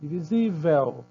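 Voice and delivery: "Divisível" slowly, leaning on "sí"; teacher sounding out the stress in "Divisível"; stressed penultimate syllable. Shown as a demonstration. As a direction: stretch SÍ and let "vel" fall away. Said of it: "então diminuiu".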